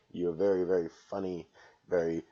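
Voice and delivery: fake-sweet, sarcastic; mock-gushing shoutout to fellow comedians; sarcastic praise. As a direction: gush with obvious insincerity. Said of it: "with only ten gallons of satirical sarcasm".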